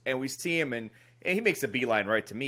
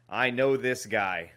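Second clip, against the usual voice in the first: slow knowing quote; 3 semitones lower, much slower than usual. Retold or imitated. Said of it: "and he goes".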